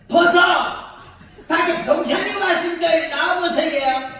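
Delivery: high loud call into the house; mock shout to her husband. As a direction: yell for him to come out. Yelling to husband inside.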